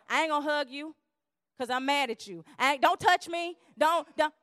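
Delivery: a hammed-up mad partner; mock angry refusal. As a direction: push them away in a huff. Acting angry withdrawer.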